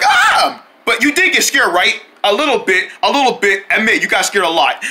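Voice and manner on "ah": imitating weak scream. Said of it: "You only like".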